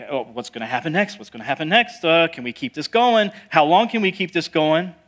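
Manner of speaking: acting out rising worry in hurried questions; mock panic. Exhausted disciples asking each other in the storm, mildly panicked. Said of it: "they're just getting panicked".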